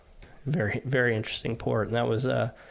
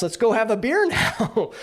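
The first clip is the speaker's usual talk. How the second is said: laughing at himself; 11 semitones higher, 5 dB louder than usual. Retold or imitated. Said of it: "I'm like".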